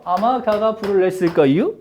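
comic Chungcheong translation, rising at end; Chungcheong dialect. Shown as a demonstration. Teacher mistranslating May God bless you, comic Chungcheong dialect. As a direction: lift the final "거유" in Chungcheong dialect. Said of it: "충청도 버전으로 갑니다".

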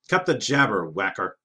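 brusque king cutting him off loudly; loud interruption. Acted. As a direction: bark over him like an impatient warlord. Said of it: "the king interjected loudly".

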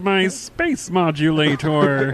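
slow, squeaky cartoon alien; menacing cartoon Martian, slow; Marvin the Martian voice. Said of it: "Marvin the Martian voice".

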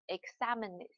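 "examines" stressed on the second syllable, "xa"; "e-XA-mi-nes", last two syllables unstressed; original stress kept. Shown as a demonstration. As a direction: keep the weight on "XA" in "examines". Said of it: "要保持它这个原单词的读音".

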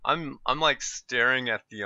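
talking around a pencil in mouth; pen in teeth. Real, not acted. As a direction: speak with a pencil between teeth. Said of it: "with a pencil in my mouth".

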